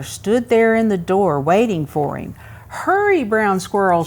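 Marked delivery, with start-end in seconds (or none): 2.7-4.0 calling grandmother. Acted. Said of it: "she called".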